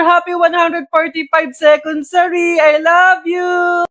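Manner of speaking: excited shout. Acted. Loud rehearsed greeting to partner.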